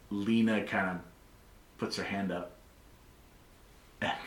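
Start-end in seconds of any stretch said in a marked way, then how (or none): none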